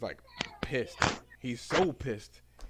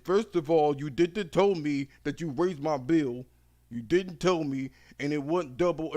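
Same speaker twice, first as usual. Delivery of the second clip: angry customer; 3 semitones higher, 3 dB louder than usual. Retold or imitated. Angry customer call voiced in story.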